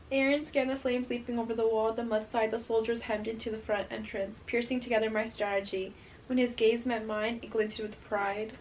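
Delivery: soft, even reading voice; story narration. A narrator's reading. Reader sharing a favourite passage with viewers, hushed narration. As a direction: read it quietly and steadily from the page. Reads book passage aloud.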